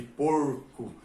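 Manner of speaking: porco with the R curled back, retroflex; countryside retroflex R. Shown as a demonstration. Teacher showing the local countryside porco, retroflex R. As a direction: lengthen porco through a curled-tongue R. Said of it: "como é pronunciado aqui no interior".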